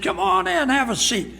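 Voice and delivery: high, booming come on in; overly hearty host welcome. Retold or imitated. Host greeting preacher at door.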